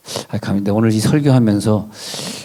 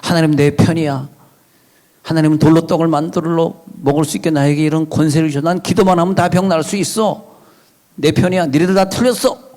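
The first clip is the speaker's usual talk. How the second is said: lightly mocked self-righteous boasting; deluded believer; 4 semitones higher than usual. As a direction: crow it in a higher voice, as a cocksure believer. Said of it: "하나님의 음성인 줄 알고 들었어요".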